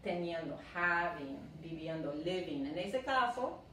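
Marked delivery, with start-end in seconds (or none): 0.7-1.4 "having" ending in a plain n sound; teacher's "having", said as havin'; silent final G. Shown as a demonstration. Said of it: "la G no se pronuncia". 2.1-2.7 "living" lower, ending in a plain n sound; a low teaching "living", said as livin'; silent final G. Shown as a demonstration. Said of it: "la G no se pronuncia".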